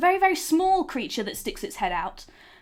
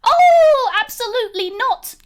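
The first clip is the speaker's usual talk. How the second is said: put-on much higher, small girl's voice; little May; 11 semitones higher, 9 dB louder than usual. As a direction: speak as a tiny proud girl. GM voicing May.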